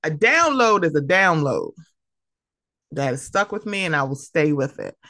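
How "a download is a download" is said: imitated catchphrase, rising then falling in a long swoop; Curtis. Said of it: "dearly departed Curtis".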